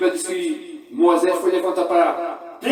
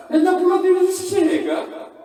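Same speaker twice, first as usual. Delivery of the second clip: laughing shout; 13 semitones higher, 7 dB louder than usual. Shown as a demonstration. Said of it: "repeated line, louder, laughing".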